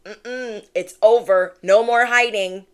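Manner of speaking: loud firm command; spirit's command. Acted. Spirit orders viewer out of hiding, loud and firm. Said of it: "Spirit is saying".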